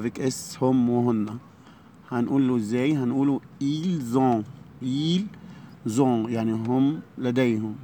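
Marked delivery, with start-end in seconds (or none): 3.6-7.8 ils ont with a z sound before ont, very slow; slow French liaison ils-z-ont. Shown as a demonstration. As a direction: join ils to ont with a clear z. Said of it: "هننطق الاس زد".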